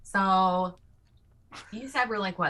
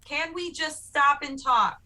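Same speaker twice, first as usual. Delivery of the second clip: high startled whoa; higher pleading whoa; alarmed calming; 8 semitones higher than usual. Acted. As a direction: try to calm everyone down. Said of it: "And I'm gonna go".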